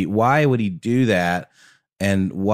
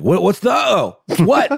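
high, alarmed, much louder; frightened flyer demanding answers; panicked passenger; 11 semitones higher, 4 dB louder than usual. Pretend. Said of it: "for certain people that have, like, phobias about flying".

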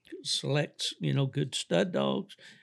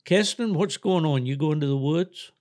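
yelling across the room; 3 semitones higher, 5 dB louder than usual. Real, not acted. Calling out to Keston downstairs.

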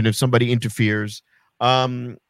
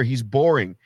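normal talking voice

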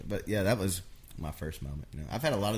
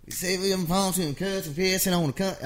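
fired-up Marty impression; 12 semitones higher, 8 dB louder than usual. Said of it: "And he's just like".

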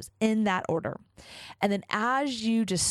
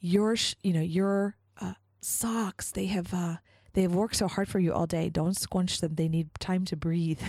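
little Japanese voice. Retold or imitated. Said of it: "in her little, like, Japanese voice".

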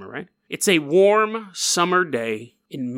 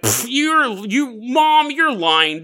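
mock kid voice; 8 semitones higher, much slower than usual. Mocking a kid's retort.

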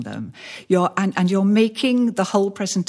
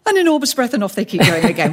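rushed on; 3 semitones higher, 4 dB louder, faster than usual. Shown as a demonstration. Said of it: "like I'm doing just now".

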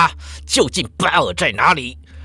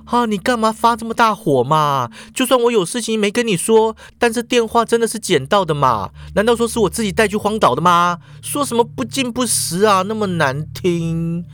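pouting; 6 semitones higher than usual. Acted. Shuhua pouts back at angry Jack, whiny. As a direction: sulk back at him. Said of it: "嘟着嘴说了".

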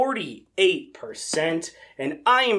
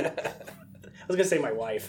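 whispered aside; 5 semitones lower, 7 dB quieter than usual. Real, not acted. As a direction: whisper it just to the mic. Aside joke to cohost.

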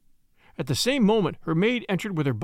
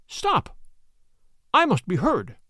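fervent cry; 5 semitones higher, slower than usual. A narrator's reading. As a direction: demand to be heard. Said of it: "spoke with the fervor that filled me".

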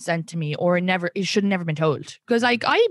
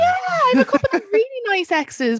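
emphatic defence; 4 dB louder than usual. Real, not acted. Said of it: "defending her exes".

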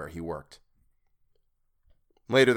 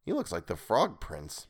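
whispering; 2 semitones lower, 5 dB quieter than usual. Acted. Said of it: "Masters whispered".

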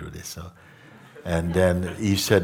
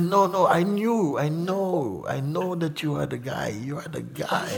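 eager admirer; 10 semitones higher than usual. Retold or imitated. Teacher insists to Mooji he knows, high and eager. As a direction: insist you already get it, a little fawning. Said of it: "He said".

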